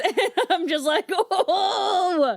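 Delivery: high laughing oh. Real, not acted. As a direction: giggle through the words.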